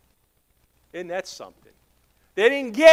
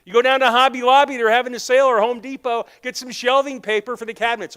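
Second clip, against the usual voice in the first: appeasing husband; 5 semitones higher than usual. Acted. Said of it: "tried to appease his wife".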